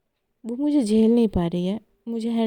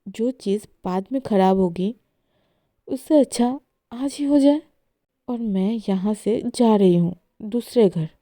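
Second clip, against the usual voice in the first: angry outburst; 4 dB louder than usual. Acted. Esha quarrels, wants breakup.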